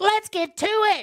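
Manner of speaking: put-on very high, stretched-out yell. Retelling how a YouTube guide presenter talks: imitating Michael Fryer yelling. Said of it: "he yells all the time".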